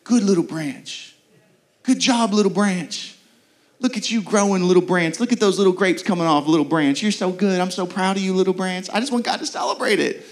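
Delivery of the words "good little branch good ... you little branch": cheering gardener. Retold or imitated. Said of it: "I wanted him to cheer me on".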